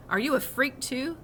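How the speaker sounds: sneering bully voice; bully taunt. A narrator's reading.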